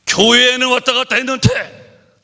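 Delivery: high, loud dramatic cry; preached shout. Real, not acted. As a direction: proclaim the doom aloud. (외치는 설교)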